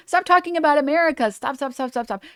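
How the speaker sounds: laughing through a mocking plea to stop; laughing mockery. Mocking critics who want America left alone, laughing. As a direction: giggle while mocking the critics.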